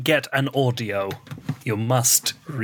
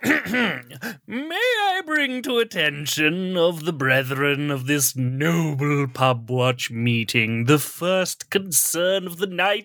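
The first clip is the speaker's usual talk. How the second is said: pompous member; 3 semitones higher, slower than usual. Acted. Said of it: "reenact it with you two".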